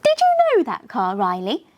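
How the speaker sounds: light up asking him; excited. Acted. Luxie eagerly quizzing Riley about the queen's car, excited. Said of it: "with an excited expression".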